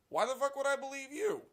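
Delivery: fed-up shout; exasperated yell. Real, not acted. Exasperated outburst.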